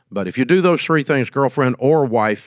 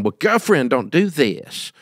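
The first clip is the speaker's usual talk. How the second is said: mock girlfriend voice; 3 semitones higher than usual. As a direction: drag out the end like a scolding partner, half-hearted. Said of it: "whatever that sounds like".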